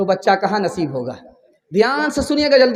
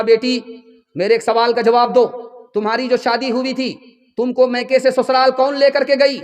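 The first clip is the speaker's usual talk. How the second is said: earnest mother; 4 semitones higher, 4 dB louder than usual. Acted. Mother questions daughter earnestly.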